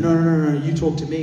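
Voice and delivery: controlling parent brushing him off, sharp; domineering parent. Retold or imitated. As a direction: shut the kid out, bossy.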